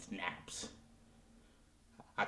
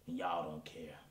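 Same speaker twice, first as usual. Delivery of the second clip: sulky whisper; 3 semitones lower, 6 dB quieter than usual. Acted. Sulking singer scolding his audience.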